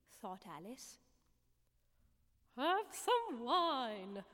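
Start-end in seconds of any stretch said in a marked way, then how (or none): 2.6-4.2 slow, coaxing offer, a little louder; a drawn-out, encouraging invitation. A narrator's reading. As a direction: tempt her kindly and slowly. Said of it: "in an encouraging tone".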